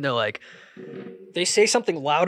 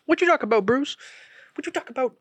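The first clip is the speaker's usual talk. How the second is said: higher, punchy catchphrase voice; catchphrase impression; 9 semitones higher, faster than usual. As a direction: toss it off like a sitcom line. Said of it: "parodying Willis catchphrase".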